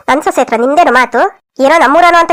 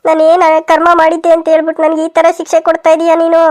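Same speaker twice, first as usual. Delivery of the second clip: hammed-up lament to God; tearful wailing. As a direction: melodramatic sobbing complaint. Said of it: "ನೀವ್ ಇಷ್ಟೊಂದೆಲ್ಲ ಅಳ್ಬೇಡಿ".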